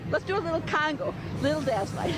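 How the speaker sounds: breathless from dancing; puffing between phrases; out of breath. Real, not acted. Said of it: "I'm out of breath".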